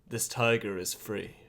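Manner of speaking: slow, measured hero voice; in-character declaration. Acted. Player declares the tiger free to special forces, in slow character voice. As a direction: declare it slowly, with weight. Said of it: "developed this whole character".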